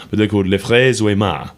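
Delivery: careful attempt at a band's name in French; French pronunciation. Shown as a demonstration. Radio host tries the band's French name, in a French accent. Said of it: "That sounded good".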